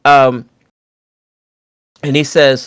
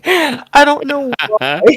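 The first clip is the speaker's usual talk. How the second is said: high, slow, laughing through the words; can barely speak for laughing; 13 semitones higher, slower than usual. Real, not acted. Laughing at the insult.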